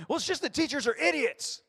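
put-on high, loud sulky child voice; whiny kid. Kid complaining to parent about school: high, loud whine.

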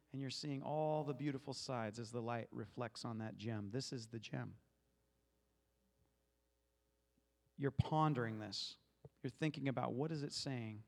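low, hushed reflective teaching; calm, contemplative, voice dropped; guided meditation. Acted. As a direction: guide listeners into pondering, with long pauses.

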